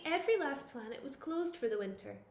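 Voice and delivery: usual speaking voice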